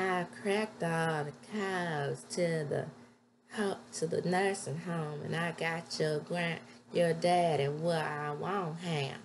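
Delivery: put-on slow, drawn-out Southern accent. The speaker drops the bomb on her, in a Southern accent. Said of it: "Southern accent".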